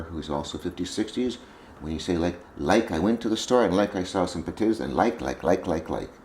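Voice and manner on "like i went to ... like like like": put-on valley girl voice. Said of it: "You sound like a valley girl".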